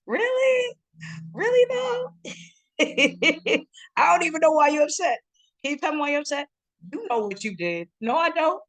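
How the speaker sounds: very high, squeaky comic falsetto; Key and Peele sketch voice. Acted. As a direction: play both sides of a sketch spat. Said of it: "It's like those clips from Key and Peele".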